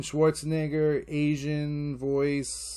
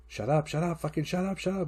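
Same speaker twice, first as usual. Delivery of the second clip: repetitive inner mantra; 4 semitones higher than usual. Retold or imitated. Dad willing stirring kid asleep, chanting. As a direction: rattle it like a desperate silent chant. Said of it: "In my head, it's my mantra".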